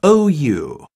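each word said slowly and clearly; slow phonics word reading. Shown as a demonstration. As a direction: read out like a phonics drill. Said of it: "Reading rules".

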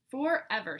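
level, falling, final statement; firm answer. Acted. Smudge answering Goose, firmly and finally. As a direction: plant it down as settled.

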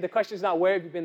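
the question, then the wrong word; contrast setup. Pretend. To Pastor B, a joking set-up for the punchline. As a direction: lead in evenly, save the punch. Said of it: "you don't understand".

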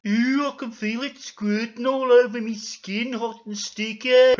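loud, high squirming voice; hammed-up loud revulsion; disgusted character. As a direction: squeal in mock disgust.

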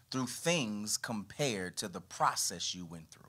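calmer, deliberate restatement. Shown as a demonstration. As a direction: go over it again deliberately so it sinks in. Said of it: "Let me repeat it".

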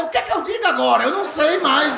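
lost for words, rattled; mock panic at a loss for words; flustered. Retold flustered self.

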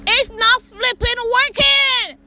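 frustrated cry at the broken system; exasperated. Real, not acted. Frustrated at failing car.

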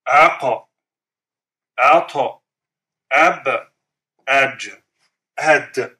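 "Aqa, Ata, Ab, Aj, Ad" with each consonant released in an echoing bounce; qalqala bounce. Shown as a demonstration. Teacher runs through all five qalqala letters, bouncing each. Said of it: "This is the letters of qalqala".

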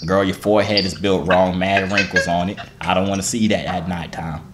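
put-on country-accent roasting. Mocking a stranger's looks, in a country accent. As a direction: tease in a Southern country accent. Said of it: "let me do a break from the accent".

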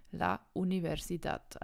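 "Universidad" with the final -dad stressed; stress on last syllable. Shown as a demonstration. Teacher giving the correct version, last syllable of "Universidad" stressed. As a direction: land on DAD at the end of "Universidad". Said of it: "die Betonung ist hinten".

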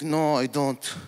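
put-on clipped dad accent, Lebanese; mock Lebanese dad; thick Arab accent. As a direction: do your dad's thick accent. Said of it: "thick accent".

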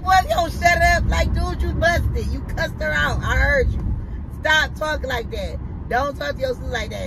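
high-pitched retold mom scolding; fussing. Mother calling out son's fake tears, fussing. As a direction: imitate a mother telling off her boy. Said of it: "'cause I'm fussing at him".

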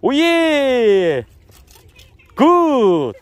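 high, long drawn-out cheer; showy victory call; celebratory whoop. Pretend. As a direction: stretch each word into a falling holler. Showing off celebration reactions.

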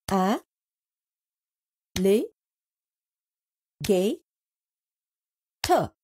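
"A, li, ga, ter" as four separate beats; syllable by syllable. Shown as a demonstration. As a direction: clap out "A, li, ga, ter" one beat each. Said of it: "clap after you hear each of them".

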